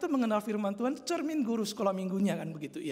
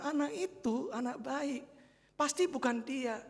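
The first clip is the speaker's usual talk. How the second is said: retelling the teacher; 5 semitones higher than usual. Retold or imitated. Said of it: "guru sekolah minggu juga mengatakan".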